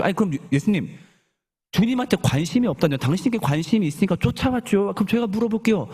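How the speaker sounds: high-pitched, mildly affronted objection; indignant protest. Acted. Crowd answering the Lord that they did follow him, protesting. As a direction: object as if wrongly accused.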